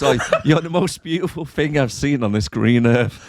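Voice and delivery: laughing through the quote; barely holding back giggles; amused. Real, not acted. Retelling his seduction line to a mate, amused laughter.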